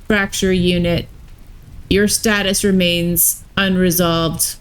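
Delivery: lightly voiced robot warden; even, mechanical robot delivery. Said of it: "had robot voices".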